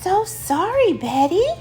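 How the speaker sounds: high, sweet apology; smiling apology. Acted. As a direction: apologise with a smile in the voice. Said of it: "said George with a smile".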